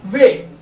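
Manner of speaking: वे said clearly with v; German ve. Shown as a demonstration. Teacher modelling German W as वे. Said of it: "डब्ल्यू की क्या sound होती है".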